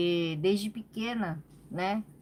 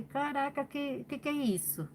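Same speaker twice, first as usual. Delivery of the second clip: higher, softer, startled at her own shaking legs; retelling the shock to her partner, pitched up; startled surprise; 6 semitones higher, 5 dB quieter than usual. Retold or imitated. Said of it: "até falei pro Fê". (surpresa assustada, mais aguda e baixinha)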